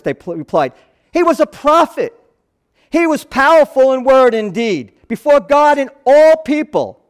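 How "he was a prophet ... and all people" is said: heated insistence. Pretend. Cleopas, blood pumping, insisting.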